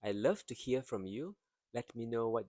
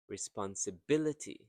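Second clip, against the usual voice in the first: "responsibility" with emphasis on "bil"; quick run up to a punched "bil" in "responsibility"; stressed syllable. Shown as a demonstration. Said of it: "you can see the stress syllable".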